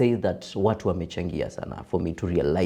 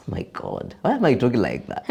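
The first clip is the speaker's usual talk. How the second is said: laughing; 2 semitones higher than usual. Real, not acted. Laughing at his own voice.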